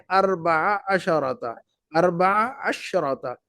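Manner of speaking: اربع عشرة said slowly with a long aa in اربع; slow model reading. Shown as a demonstration. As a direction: draw out اربع عشرة for students. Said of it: "ایسا پڑھیں گے". (آہستہ آہستہ ماڈل تلفظ)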